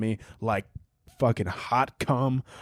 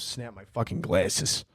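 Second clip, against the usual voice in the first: slow, low hint of New York Italian; Italian New York accent; 3 semitones lower, 4 dB quieter, slower than usual. Podcaster griping about broken glasses, playful New York Italian accent. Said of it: "I love talking like an Italian".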